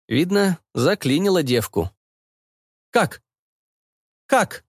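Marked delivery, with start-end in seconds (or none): 2.9-4.6 high echoing questions; echoing voices. A narrator's reading. Crowd echoes mentor, puzzled high voices. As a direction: echo the question back, puzzled. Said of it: "эхом отозвались".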